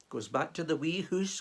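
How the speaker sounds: light Scottish lilt on wee hoose; a touch of Scots narrating; Scottish accent. Acted. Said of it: "complete with the accent".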